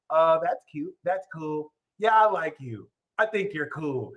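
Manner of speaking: soft, offhand, unbothered replies; mock nonchalant. Imitating the nonchalant sign answering a lover, soft and offhand. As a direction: shrug it off, barely interested.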